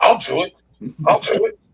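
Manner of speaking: very high-pitched, really intense delivery. Imagining Max agreeing to jump off a building: intense Max imitation. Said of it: "Real intense".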